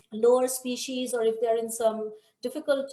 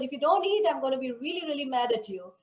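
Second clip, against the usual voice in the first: a playful hint of a furious child; childish threat; 3 semitones higher than usual. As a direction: threaten like a cross little kid. Boy threatens deity with stick.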